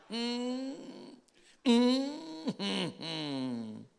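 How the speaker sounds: high drawn-out whimper, then dropping; mock whimpering hum. Saul hearing David, mock whimpering hum. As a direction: hum pitifully through closed lips. Mimics Saul before hijo mío.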